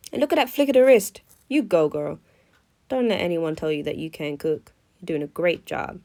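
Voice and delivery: slipping into an American accent. Real, not acted. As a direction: cheer yourself on in a light American accent. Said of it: "I don't know why I'm going American".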